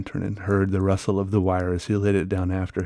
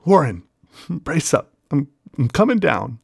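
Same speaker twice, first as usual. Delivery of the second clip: louder, higher determined shout; shouted resolve; 6 semitones higher, 4 dB louder than usual. Acted. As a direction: shout it down bravely. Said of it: "I formed and shouted a resolution".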